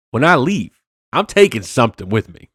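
light Denzel impression; Denzel quote. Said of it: "as Denzel said in that viral clip".

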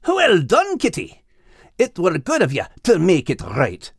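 lightly voiced approving dog; gruff Max. Max praising Al, hint of a burly dog. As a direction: praise him kindly.

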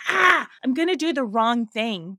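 lightly hammed-up fear of a mistake; mock panic. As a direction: blurt it out in pretend dread. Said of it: "There's that fear of".

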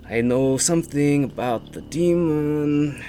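slow, drawn-out character line; forgetful tiefling. Acted. Tiefling recalls what she knows about the demon, slowly. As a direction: stretch it out as if recalling it.

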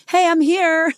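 high, breezy mock greeting; hammed-up cheerful arrival; mock new year. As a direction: play the New Year strolling in all casual. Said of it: "just like".

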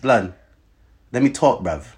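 badly faked London accent; bad British accent. Podcast host insisting on being heard, bad put-on British accent. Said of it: "You're so bad at this fucking accent".

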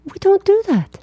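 high incredulous protest. Real, not acted. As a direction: squeak it out in disbelief. Protesting co-host.

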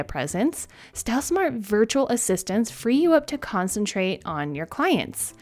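upbeat sponsor ad read. Acted. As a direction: sell it like a podcast ad. Reads a sponsor ad.

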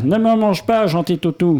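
mock plea from a tiny hamster; pleading hamster. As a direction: beg the dog sweetly, half laughing. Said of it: "Le hamster supplia".

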